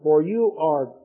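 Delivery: steady, solemn Bible reading; scripture reading to a congregation. Acted. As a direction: read the angel's message with weight. Reads Daniel chapter nine.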